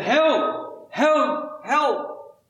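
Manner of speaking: high calls of "Help!"; storyteller calling "Help!" in a man's high cry; mock yelling for help. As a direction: call out "Help!" up high like a stranded man. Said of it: "he started yelling out".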